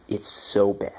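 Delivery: hushed whisper, as if sharing a secret; whispered aside. Real, not acted. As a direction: drop to a breathless whisper for the punchline. Aside about the fake baby.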